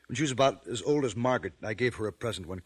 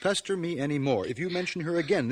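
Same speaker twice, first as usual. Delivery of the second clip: stern scolding; 6 semitones higher, 4 dB louder than usual. Acted. Father scolds pestering daughter.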